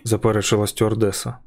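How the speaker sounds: ordinary delivery, nothing marked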